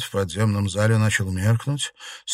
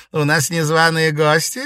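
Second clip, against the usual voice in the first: amused witch; 8 semitones higher, 6 dB louder than usual. A narrator's reading. Witch greets intruding ghost.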